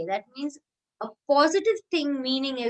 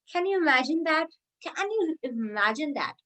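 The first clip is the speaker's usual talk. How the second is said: rhetorical disbelief; 5 semitones higher than usual. Shown as a demonstration. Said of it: "bring a lot of effect".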